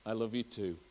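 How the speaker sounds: softly imitating a dying mother, weak and fragile; a frail, faint echo of her last words. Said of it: "in a very weak and fragile voice".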